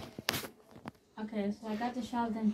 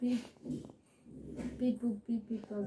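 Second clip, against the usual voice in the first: alien voice. Pretend. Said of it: "They're gonna making alien sounds".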